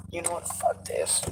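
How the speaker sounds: low unvoiced mutter under breath. Real, not acted. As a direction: mutter it to yourself, barely voiced. Muttering, then exploding in frustration.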